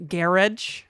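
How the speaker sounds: "garage" as "GARRIDGE", stress first; British "garage", GARR-idge; British pronunciation. Shown as a demonstration. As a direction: say "garage" to rhyme with "carriage". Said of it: "Brits say".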